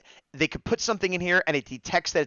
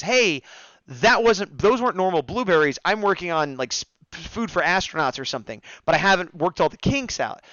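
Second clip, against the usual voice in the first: put-on New Zealand accent. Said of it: "loves my good New Zealand accent".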